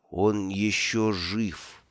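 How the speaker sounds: soft, slow near-whisper. Acted. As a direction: breathe it out slowly and softly. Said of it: "прошептал Бруто".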